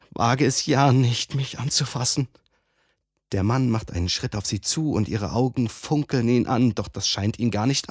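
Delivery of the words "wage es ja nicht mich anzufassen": warnend. Acted. Frau warnt.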